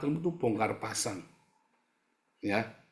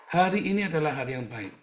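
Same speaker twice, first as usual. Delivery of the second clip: rising proclamation; 5 semitones higher, 4 dB louder than usual. Acted. Repeated as a proclamation.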